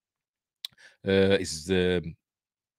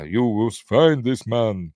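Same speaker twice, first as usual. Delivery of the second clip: put-on Russian accent; 2 semitones higher, slower than usual. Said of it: "putting Russian accents on, like me".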